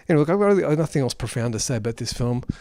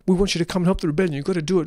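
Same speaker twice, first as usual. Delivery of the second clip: imitating a nag, rattled off fast; mildly pestering, rushed mock quote; nagging; 2 semitones higher, much faster than usual. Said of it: "nagging him. She sounded like".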